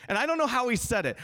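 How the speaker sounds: animated aside. Real, not acted. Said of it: "I really wanna, like, look and be like".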